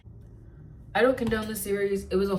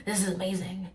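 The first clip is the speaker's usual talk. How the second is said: awed whisper. Retold or imitated.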